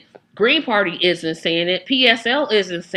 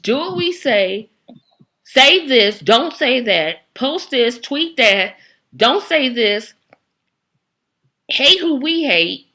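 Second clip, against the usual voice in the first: mock commanding voice; 3 semitones higher than usual. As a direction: bark out orders, mockingly. Mocking party demands.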